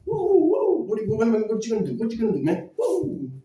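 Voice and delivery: hyped-up taunting. Pretend. Mock fight taunting, bouncing.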